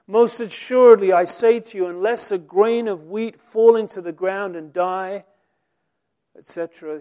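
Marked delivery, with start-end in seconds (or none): 0.1-5.3 loud, ringing declaration; solemn proclamation. Acted. Jesus declaring to disciples, loud and solemn. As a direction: declare it with authority.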